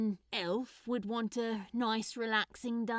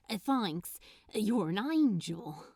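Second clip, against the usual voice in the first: gushing; slower than usual. Acted. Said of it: "Crowley gushed".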